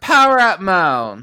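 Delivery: loud, high battle command; power-up shout. Acted. Ranger powering up mid-fight, a loud high shout. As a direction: call it out like a hero powering up.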